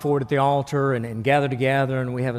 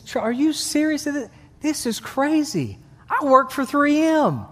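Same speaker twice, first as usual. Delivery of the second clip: disbelieving new father; 9 semitones higher than usual. Acted. Second father reacts.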